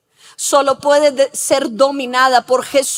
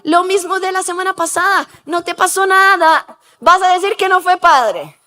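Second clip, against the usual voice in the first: higher-pitched imitation of pushy friends; coaxing friends; 4 semitones higher than usual. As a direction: tempt him, pressing and playful. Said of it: "Y está con los amigos y dicen". (amigos insistentes, imitados con voz más aguda)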